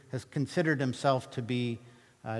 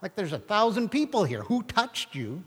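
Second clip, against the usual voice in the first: higher, incredulous mock protest; mock the disciples' disbelief; impatient disciples scoffing at Jesus; exasperated disciples; 5 semitones higher than usual. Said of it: "bodyguard disciples were there going".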